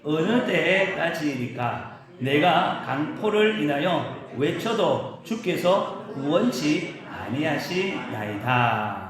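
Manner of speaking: slow, solemn reading of scripture. Shown as a demonstration. Pastor reading Habakkuk aloud to the congregation, slow and solemn. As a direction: read the lament slowly and gravely. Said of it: "같이 읽겠습니다".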